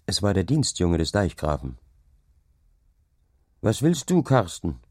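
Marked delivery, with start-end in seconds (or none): 3.6-4.8 higher-pitched call to someone approaching; mildly raised, questioning call. A narrator's reading. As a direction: hail the boy with a question. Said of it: "rief ihm der Knecht entgegen".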